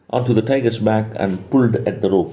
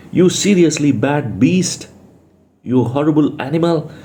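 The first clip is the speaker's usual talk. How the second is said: a touch of anger, pitched up; mild angry scolding; 5 semitones higher than usual. Acted. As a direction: read an angry insult with restraint. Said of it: "a voice screamed angrily".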